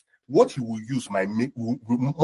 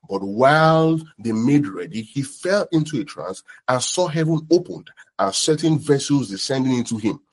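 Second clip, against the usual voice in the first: steady, measured Bible reading; scripture reading. Acted. Preacher reading Acts aloud to the congregation, measured. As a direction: read the passage aloud to the church.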